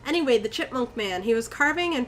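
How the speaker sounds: even first-person storytelling; story narration. A narrator's reading. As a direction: read it out as an eerie anecdote. Reads the story aloud.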